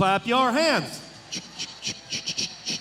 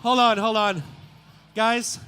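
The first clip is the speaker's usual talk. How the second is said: big arena shout; shouting to the crowd; 2 semitones lower, 8 dB louder than usual. Real, not acted. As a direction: call out to the whole arena.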